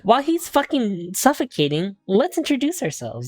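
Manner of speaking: mock urgency. Redoes line in exasperated higher voice.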